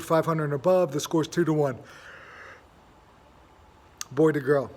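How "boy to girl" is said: words stretched by a yawn. Real, not acted. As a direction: say it mid-yawn. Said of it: "Sorry about that yawn".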